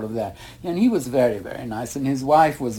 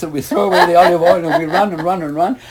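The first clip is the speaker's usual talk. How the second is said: excited retelling; 5 semitones higher, 7 dB louder, faster than usual. Retold or imitated. Running for the departing ship.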